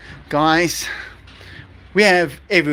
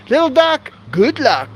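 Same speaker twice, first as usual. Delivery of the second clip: mother duck voice; 8 semitones higher than usual. Retold or imitated. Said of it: "And she said".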